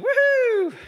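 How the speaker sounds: high joyful whoop; ecstatic whoop. Real, not acted. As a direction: whoop it out in joy. Ecstatic shout in meeting.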